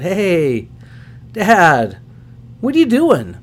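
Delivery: daughter's voice. Retold or imitated. Father voicing daughter's late call.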